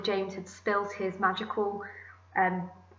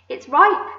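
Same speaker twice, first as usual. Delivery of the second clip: high, loud exclamation; delighted cry; 7 semitones higher, 9 dB louder than usual. A narrator's reading. Aunt having touched the peach, delighted cry. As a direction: cry out the happy discovery. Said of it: "she cried".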